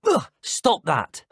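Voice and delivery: groan, then snap at the prankster; exasperated. Acted. Student protests at a poltergeist's tricks, exasperated. Annoyed at being spun about.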